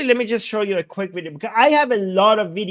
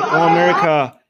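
mock rooftop shout; 4 dB louder than usual. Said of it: "a man on a rooftop shouting".

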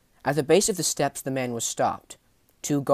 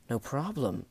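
blunt cold question; 3 semitones higher than usual. Acted. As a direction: throw the words back coldly. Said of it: "questioned Jet Varn bluntly as he stared coldly".

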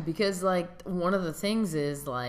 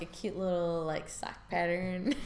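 put-on valley girl voice; 3 semitones higher than usual. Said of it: "Why are you talking like a valley girl?".

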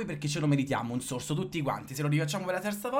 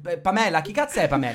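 startled outburst; 3 semitones higher, 6 dB louder than usual. Retold or imitated.

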